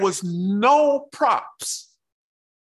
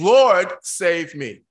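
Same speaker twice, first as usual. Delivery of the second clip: a slow, louder plea for rescue; crying out; 6 dB louder, slower than usual. Acted. Peter sinking, crying to the Lord: slow loud plea. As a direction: call out to be saved. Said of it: "He cried out".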